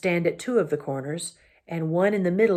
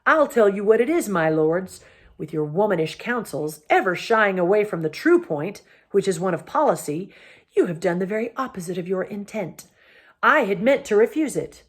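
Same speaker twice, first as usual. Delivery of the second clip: raised, angry royal scolding; a king scornfully roaring at his cowardly lords; 2 semitones higher, 3 dB louder than usual. Acted. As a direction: berate the lords with contempt. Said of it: "roared Myraz".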